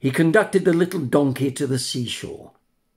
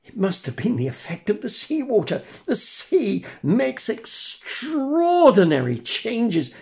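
put-on high, cheeky puppet boy; mischievous wooden boy, teasing; 10 semitones higher than usual. A narrator's reading. Pinocchio voiced.

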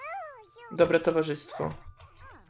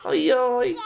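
cute squeal; 5 semitones higher, 6 dB louder than usual. Real, not acted. Squeal at baby.

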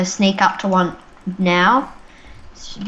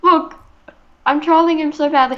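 excited; 6 semitones higher than usual. Real, not acted. Calling out while trolling.

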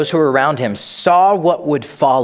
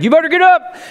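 high, loud mock warning from dad; dad's wake-up warning; 6 dB louder, faster than usual. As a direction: bark it down at a sleeping kid, much higher and louder. Dad standing over sleeping son.

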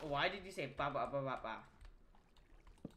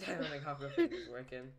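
laughing, teasing echo; mocking repeat; 3 semitones lower, faster than usual. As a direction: parrot the words with a laugh. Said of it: "mocking repeat with a laugh".

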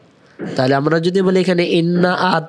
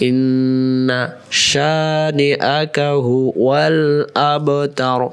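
ইন্না শানিআকা, drawn out; slow recitation; much slower than usual. Shown as a demonstration. Teacher reciting the verse slowly. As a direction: stretch every syllable. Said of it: "recited repetition".

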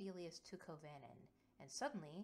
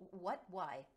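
sudden startled question; 2 semitones higher, 8 dB louder than usual. Acted. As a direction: caught off guard. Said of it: "Kovanen's startled".

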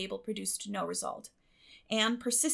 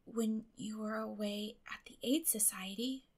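a little slowly. A narrator's reading. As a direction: confess it slowly under her breath. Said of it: "said Anne a little slowly".

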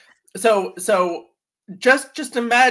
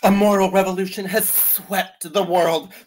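put-on old author's internal dialogue. Reading an old man's book to co-hosts, theatrically solemn. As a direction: savor key words with mock gravity. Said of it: "My voice is his internal dialogue".

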